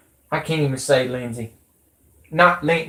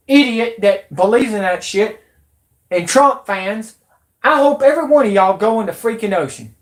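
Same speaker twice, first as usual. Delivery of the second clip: angry rant; 5 semitones higher than usual. Real, not acted. Furious rant at his viewers.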